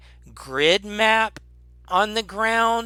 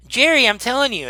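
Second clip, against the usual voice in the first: high, insistent goblin plea; 8 semitones higher, 4 dB louder, faster than usual. Acted. Goblin insists to the other goblin, pleading high. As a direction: plead with a fellow goblin, pitched up. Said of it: "and he says".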